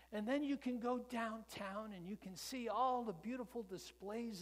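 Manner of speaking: put-on high, loud kid making a vow; a big brother swearing he'll buy one; boy vows to his crippled brother, high and earnest; little boy promising.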